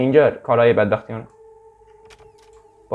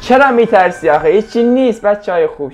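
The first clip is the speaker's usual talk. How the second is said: mock reassurance; 6 semitones higher, 6 dB louder than usual. Real, not acted. Taunting the viewers about fear.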